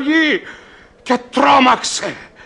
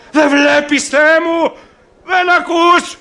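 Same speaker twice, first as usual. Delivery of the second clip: desperate plea; 4 semitones higher, 3 dB louder than usual. Acted. Pleading to God in despair.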